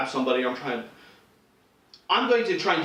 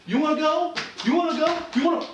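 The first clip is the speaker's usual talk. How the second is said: much higher, goading challenge; bro picking a fight; 11 semitones higher than usual. Retold or imitated. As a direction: puff up and taunt like a bar brawler. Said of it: "the bro fight".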